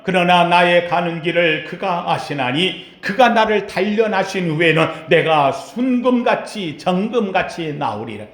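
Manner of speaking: reading Job to the congregation; scripture reading. Acted. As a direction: read the verse solemnly. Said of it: "욥기 이십삼 장 십 절에 보면".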